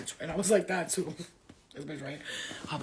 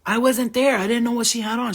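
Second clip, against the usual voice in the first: louder, higher protest; emphatic retold denial; 4 semitones higher, 8 dB louder than usual. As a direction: raise your voice in defense.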